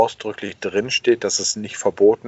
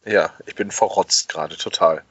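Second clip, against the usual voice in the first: blocked nose. Real, not acted. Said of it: "als würde ich mir die Nase zuhalten".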